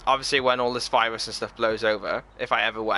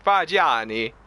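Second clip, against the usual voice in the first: put-on Fagiani in a hearty Italian accent; proper Italian accent; 2 semitones higher, 4 dB louder, slower than usual. Streamer relishing a viewer's surname, proper Italian accent. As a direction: lean right into the Italian accent. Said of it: "go proper into, like, the Italian accent".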